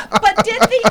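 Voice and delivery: giggling while asking the audience question; laughing. Real, not acted. Laughing over the Chinese song story.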